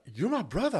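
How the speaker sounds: a hint of the sobbing stranger's voice; imitating crying brother. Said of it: "and he starts crying".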